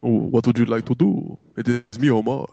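put-on made-up Dracula accent. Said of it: "Why is Omar Dracula?".

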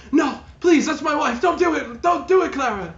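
high, loud frantic pleading; begging husband. Acted. Servant begs Clara to spare his wife, high and loud. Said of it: "He's like".

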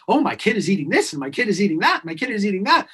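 quick, bright retelling of a proud parent; happy parent. Retold or imitated. A parent telling the doctor, mildly excited and fast. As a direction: gush like a delighted parent, fast. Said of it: "that parent so happy".

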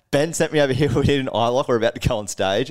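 imitating his own flustered self; urgent retold plea. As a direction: rush the explanation with mild panic. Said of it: "And I'm like".

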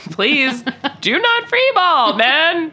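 high, laughing, drawn-out plea. Real, not acted. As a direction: beg through laughter. Laughing plea about free balling.

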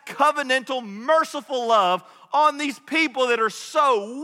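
a lightly voiced indignant Jonah, slowed and pressing; voicing Jonah's complaint. Preacher speaks as Jonah, protesting God's mercy, mild indignation. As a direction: let Jonah's grievance drag out, half-hearted outrage.

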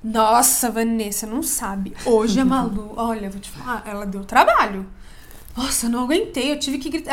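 lightly voiced dramatic aunt, complaining about the niece; a hint of the exasperated aunt venting. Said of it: "Ah, já sou bem dramática". (tia dramática reclamando, só um pouco interpretada)

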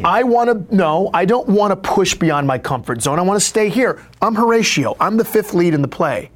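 high-pitched, mock-panicked refusal; stubborn protest. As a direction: dig in and plead your case. Acted protest against professor's push.

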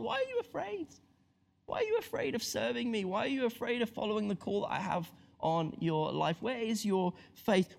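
gentle question. Acted. God to his people, soft and tender. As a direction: ask without blame.

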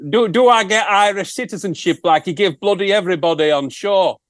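a hint of a northern English accent; lightly voiced rock star asking; put-on accent. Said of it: "Don't know where that accent came from".

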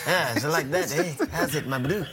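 mock South African. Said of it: "Sounded a little bit like a gangster".

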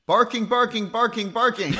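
high, sing-song barking words; high-pitched barking. Acted. Player answers the table in high barking words. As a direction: bark the words up high like an excited pup. Asked if character speaks English.

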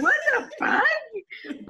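high, drawn-out mock wail; slow squeal of disbelief; retold disbelief. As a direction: stretch it out high in bewilderment. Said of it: "And I'm like".

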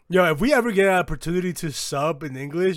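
strained, worn-out voice; hoarse, voice nearly gone; voice giving out. Real, not acted. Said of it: "I'm losing my voice".

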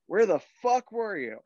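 high-pitched mock outrage; retold angry scolding. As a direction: imitate a boss scolding the latecomer.

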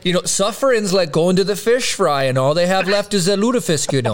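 put-on joining in with a folksy Minnesota accent; mock Minnesota storyteller. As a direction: riff in a playful Minnesotan lilt. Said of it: "say it in a good old Minnesota accent".

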